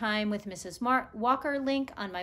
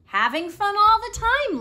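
higher, louder playful line; laughing; 12 semitones higher, 11 dB louder than usual. Acted. Gogol the monkey answers Nikolai, playful mock laugh. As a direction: say it like a giggling monkey. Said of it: "laughed Gogol".

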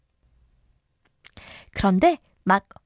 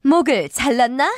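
shouting. Acted. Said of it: "여왕이 소리를 질렀다".

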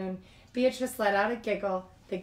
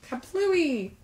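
exclaiming; 8 semitones higher, 5 dB louder than usual. Acted. Balloon bursting sound word.

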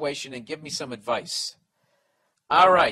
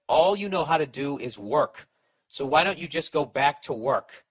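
retold wife's nagging; 5 dB louder than usual. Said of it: "then she said".

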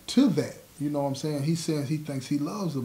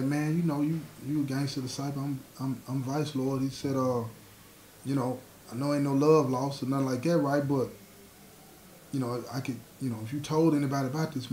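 hushed; 5 dB quieter than usual. Retold or imitated. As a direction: keep it hushed, confiding. Vice lord pleading to keep secret.

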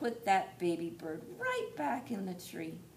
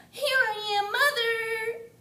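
high, loud call to the sky; 9 dB louder, slower than usual. Acted. Baby bird calls to the plane, high and loud. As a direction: shout up to the plane. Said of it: "he called out".

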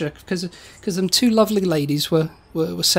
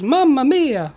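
high-pitched mild mock cry; mock scream; 6 semitones higher, slower than usual. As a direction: imitate a woman's alarmed Italian cry. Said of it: "One of the women screams".

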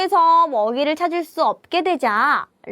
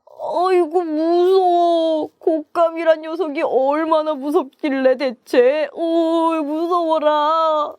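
wailing, drawn-out comic fear; frightened tiger; 3 semitones higher than usual. Acted. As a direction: play a tiger moaning in fright. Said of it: "라오후는 잔뜩 겁을 먹었어요". (겁먹은 호랑이처럼)

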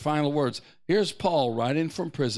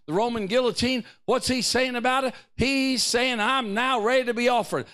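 impassioned preaching; 7 semitones higher than usual. Real, not acted. Preaches on Paul's attitude.

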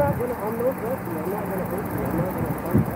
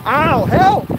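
loud, high cries of pain; shouting for help; 7 semitones higher, 6 dB louder, much slower than usual. Real, not acted. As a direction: yell out in real pain. Being grabbed, crying out in pain.

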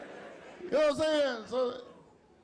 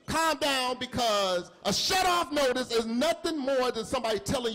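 hammed-up reassurance; 3 semitones higher than usual. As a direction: pump up the calm-down like a hype man. Husband calming panicking wife.

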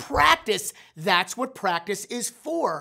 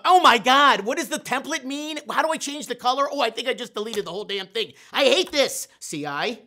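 frustrated panic; 3 semitones higher, 3 dB louder than usual. Retold or imitated. Retelling Canva frustration.

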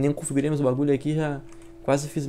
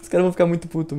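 normal talking voice

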